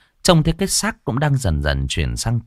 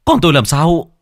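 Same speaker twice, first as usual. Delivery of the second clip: losing composure; 3 semitones higher, 5 dB louder than usual. Acted. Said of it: "Hùng không giữ được bình tĩnh".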